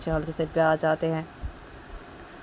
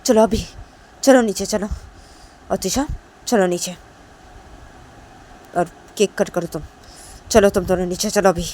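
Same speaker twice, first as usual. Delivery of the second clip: loud scolding call to come downstairs; 2 semitones higher, 9 dB louder than usual. Acted. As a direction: call them down firmly, loud. Mother calling daughters downstairs.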